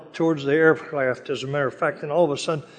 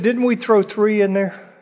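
astonished king; 7 semitones higher, 5 dB louder than usual. Retold or imitated. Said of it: "He said".

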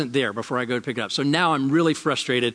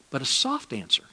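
soft reading; 3 semitones lower, 5 dB quieter than usual. Real, not acted. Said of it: "the first half of that thing says".

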